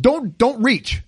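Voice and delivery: slow, high-pitched imitation of a mother's warning; alarmed mom warning. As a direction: stop her with a drawn-out mock warning. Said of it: "and your mom said".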